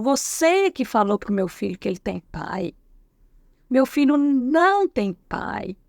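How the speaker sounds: mildly mock the furious mother, dragging the last line; nervous angry mother. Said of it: "E aí ela ficou muito nervosa".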